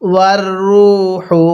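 ওয়ার রু হু with air through the mouth on হু; tajweed chant; recitation with breathy হু. Shown as a demonstration. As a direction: breathe out lightly on the হা. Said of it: "কিভাবে পড়ব".

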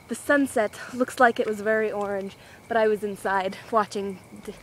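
breathless from walking; slightly winded while talking; out of breath. Real, not acted. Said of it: "Now I'm out of breath".

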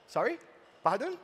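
puzzled questions with a rising lilt; mock incomprehension. Cows who didn't understand anything, mock puzzled. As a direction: play politely lost listeners. Crowd did not understand the explanation.

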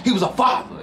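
high, crying cast member voice; mock wailing quote. Vlogger imitating the grieving cast member, high mock wail. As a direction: wail it like the upset girl. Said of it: "She's like".

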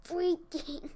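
loud, exasperated venting; annoyed outburst. Real, not acted. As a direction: vent your annoyance loudly. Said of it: "I'm so annoyed".

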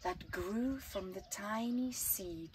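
put-on slow, lilting read-aloud for children; gentle storyteller reading to kids; story narration. A narrator's reading. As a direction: tell it like a bedtime picture book. Reads picture book aloud.

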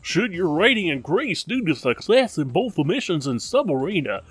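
mock formal announcer read. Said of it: "I suddenly just have this voice on".

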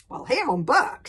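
loud, high-pitched argumentative lad; aggrieved boy Hiccup. Acted. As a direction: argue back loudly at grandfather.

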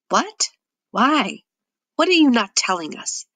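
"What?" jumps high, then a pushy, accusing demand; an understated angry shout from the suspicious nephew; mock shout.

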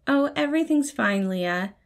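chirpy cover for annoyance; cheerful. A narrator's reading. Patton cheerfully brushing off Leah's concern, forced cheer. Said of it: "Patton said cheerfully".

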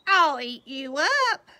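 put-on boy shouting back at his mother; wild boy threat. A narrator's reading. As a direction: threaten mom like a little monster. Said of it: "and Max said".

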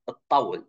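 الطول with the ط held as a doubled t; geminated ta. Shown as a demonstration. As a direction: say الطول with a long, doubled ط sound. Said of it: "pronounced as geminated ta".

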